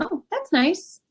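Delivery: high, hollow fake interest; faking it. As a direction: say it like you don't care at all. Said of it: "she could be faking it".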